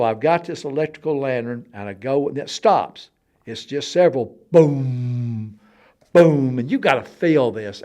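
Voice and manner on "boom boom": drawn-out resonant booms; imitated booms. Wanting listeners to feel the noise, imitated booms. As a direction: make the boom roll through the walls. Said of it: "it's going through the walls".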